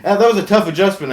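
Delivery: ordinary talk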